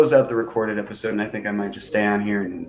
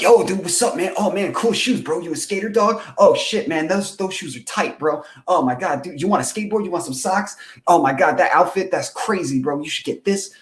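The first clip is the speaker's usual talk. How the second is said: higher, overly chipper hyped-up salesman; most chipper; 6 semitones higher than usual. Retold or imitated. Shop worker at Zumiez hyping up a customer, high and chipper. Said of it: "I had to be the most chipper".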